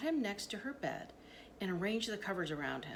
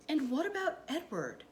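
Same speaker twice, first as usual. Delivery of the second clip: put-on a raised, unsure little girl's question; high and uncertain; 7 semitones higher, 3 dB louder than usual. A narrator's reading. Girl at dinner asks if her rabbit comes, high and uncertain. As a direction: ask it high and timid, unsure of the answer. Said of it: "her voice high and uncertain".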